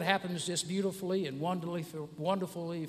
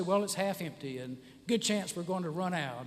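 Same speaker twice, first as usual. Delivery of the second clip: pessimist; 3 dB quieter than usual. Acted. Pessimist answering the cup question, mildly gloomy. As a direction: let it sag toward the end. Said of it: "If you're a pessimist".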